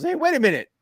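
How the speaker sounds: high, laughing mock wrestler voice; squeaky high put-on voice breaking into a laugh. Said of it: "He goes".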